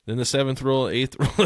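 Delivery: hammed-up announcement spelling out the obvious; mock flight attendant. Joking to his cohost, announcing exit rules like a flight attendant. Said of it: "Why can't they just say".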